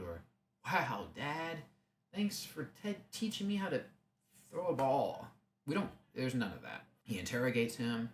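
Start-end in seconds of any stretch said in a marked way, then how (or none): 0.6-5.3 mock son. Mocking imagined son's gratitude.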